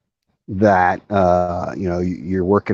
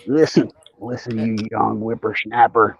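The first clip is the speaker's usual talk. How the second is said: slow, lightly voiced cranky old man; slower than usual. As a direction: scold like a grumpy grandpa. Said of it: "Don't make me get out my old man voice".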